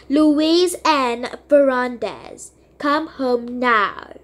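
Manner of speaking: slow stern mom, spelling it out; stern full-name command. Acted. Mom calling daughter by her full name to come home. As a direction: lay down the law.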